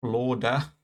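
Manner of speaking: "Florida" squeezed into two syllables, FLOR-da; trying out pronunciation. Shown as a demonstration. Streamer testing how he says "Florida", two syllables, tentative. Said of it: "questioning how I say it".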